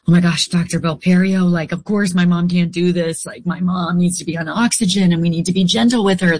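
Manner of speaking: fast, pitch climbing as it goes; mock-urgent daughter, words tumbling out; retold worried plea. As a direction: rush through an earnest protest to the doctor. Retelling worried plea to doctor.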